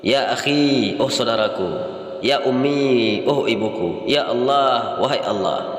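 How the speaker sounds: drawn-out vocative calls, each then glossed; measured demonstration of calling words; demonstrated exclamations. Shown as a demonstration. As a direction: stretch each call as if hailing someone. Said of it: "Kami mulai dengan kata seru".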